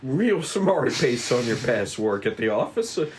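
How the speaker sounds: lightly voiced polite detective. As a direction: charm them with nervous courtesy. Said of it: "Kiri speaks politely".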